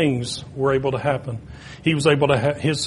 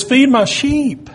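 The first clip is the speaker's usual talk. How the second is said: higher, louder and slow; emphatic command; 9 semitones higher, 6 dB louder, slower than usual. Retold or imitated. The Lord commanding Peter, slow emphatic order. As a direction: press the command home.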